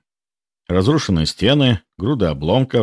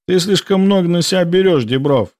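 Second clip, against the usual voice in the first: curt jab; 10 semitones higher than usual. A narrator's reading. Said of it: "бросил он".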